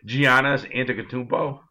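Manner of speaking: proud precise pronunciation of Giannis Antetokounmpo; careful name pronunciation. Shown as a demonstration. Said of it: "give me one more pronunciation".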